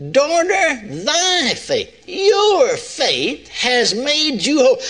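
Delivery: high, slow scripture quote as Jesus; a hint of Jesus blessing the woman; voicing Jesus. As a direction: lift it like Jesus speaking. Quoting Jesus again.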